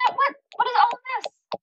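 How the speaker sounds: high, fast, disbelieving parent; what on earth is this mess; exasperated mom. Retold or imitated. Mom scolding her kids over toys.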